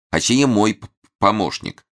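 a light stammer before помощник; stutter. A narrator's reading. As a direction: stumble on п- then finish. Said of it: "вновь появилось заикание".

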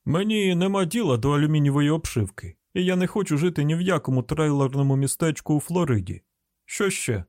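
irritated hillbilly householder, slightly high; gruffly dismissive on the phone; brusque refusal. Acted. Man cuts off supposed sales call.

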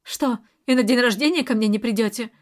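usual speaking voice

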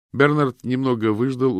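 plain reading voice

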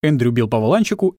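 ordinary delivery

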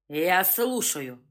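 slow, low command. Acted. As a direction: order him to speak, slowly. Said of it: "отдал приказ Вольнов".

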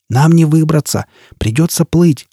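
mild shout over the roar of water. Acted. Foyle shouts over the deafening water, urgent call. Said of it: "прокричал Фойл".

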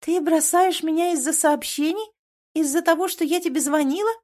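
high, loud disbelief; protest, hurt and outraged; indignant girlfriend. A narrator's reading. Girlfriend upset at breakup.

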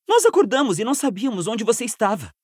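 fast, breathless report; out of breath, hurried; urgent panting report. Acted. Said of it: "disse ofegante". (relato ofegante e apressado)

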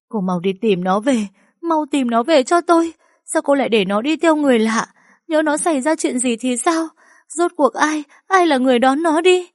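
high, loud, desperate demands; frantic shouting. A narrator's reading. Mother screams at the careless teacher, high and desperate. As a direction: shriek at her to find him now.

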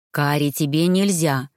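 lightly voiced husband protesting; husband's mild low scolding; indignant bass. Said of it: "возмущённо пробасил Ирт".

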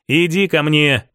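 calling his fiancée into a hug, tender. Acted. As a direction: draw her in gently. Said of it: "позвал я девушку".

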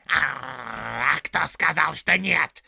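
loud, high snarling orc tracker; rough orc voice. Acted. Orc tracker arguing with the big orc, loud and snarling. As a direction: bark it out like a quarrelsome orc.

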